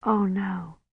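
soft inner dismay; inward thought. A narrator's reading. Kivrin seeing his violent manner, quiet inward dismay. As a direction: think it quietly, barely voiced. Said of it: "Kivrin thought".

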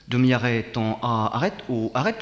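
"Demi-arrêt" called out loud, like a riding order; loud command. Shown as a demonstration. Rider calling a loud command to the horse.

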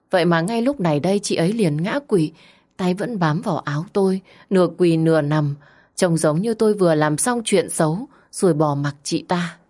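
usual speaking voice

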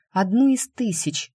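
plain reading voice

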